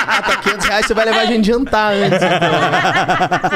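loud, laughing sarcastic comeback; laughing retort. Retold or imitated. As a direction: laugh through a mocking reply. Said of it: "fala assim".

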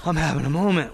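mock-emotional outburst with a laugh; overwhelmed. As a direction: play up being overcome, half laughing. Retelling being overwhelmed to partner.

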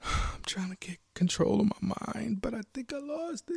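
upset, breath catching between phrases; crying protest. Acted. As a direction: plead that it was real, close to tears. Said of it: "I'm crying, I'm sobbing".

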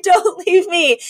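imitating Cece sobbing over the body; drawn-out mock wail. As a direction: stretch out the plea, laughing at it. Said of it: "jumps on the gurney and goes".

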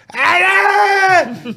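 high shouted ai ai; mock yell. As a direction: yell it like a drunk in the hotel. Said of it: "E gritava no hotel". (grito agudo imitando o amigo)

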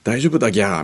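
mock Nagoya dialect. Bride whose pills are wearing off answers, in mock Nagoya dialect. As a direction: answer in a hammed-up Nagoya accent. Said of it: "薬が切れてきて名古屋まで戻ってる".

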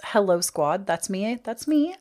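normal talking voice

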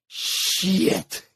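hushed, breathy shit under his breath; retelling his whispered curse in the parking lot. Retold or imitated. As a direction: mutter it in dismay, almost silent. Quiet curse realizing wrong place.

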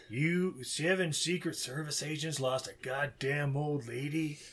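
slow, disdainful scolding; contemptuous official. Retold or imitated. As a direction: spit it out slowly with scorn. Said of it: "one guy with the mustache who's just like".

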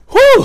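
long, high, loud puff of breath; winded whew. Real, not acted. Catching breath after running the steps, winded whew. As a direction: blow out a big whew.

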